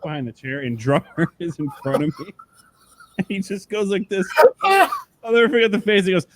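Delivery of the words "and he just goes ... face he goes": 越说越激动的复述; excited retelling. Retold or imitated. Retelling drummer's reaction.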